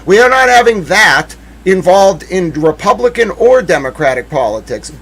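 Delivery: furious yell at the heckler; shouting ultimatum. Retold or imitated. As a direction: lay down the law, yelling. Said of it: "that's when I was like".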